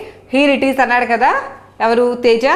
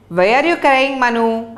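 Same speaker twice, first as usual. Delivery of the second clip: slow read-aloud; 2 semitones higher, much slower than usual. Shown as a demonstration. Teacher reads English line slowly.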